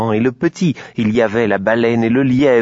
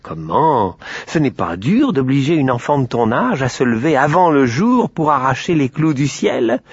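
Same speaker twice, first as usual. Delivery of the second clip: cochon insistant; 3 semitones higher than usual. Acted. Le cochon manipule Aurore.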